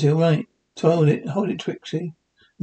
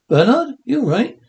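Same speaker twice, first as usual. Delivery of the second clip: alarmed; 6 semitones higher, 4 dB louder than usual. Acted. Alarmed at Fred's dazed politeness.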